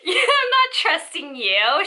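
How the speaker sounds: laughing refusal. Retold or imitated.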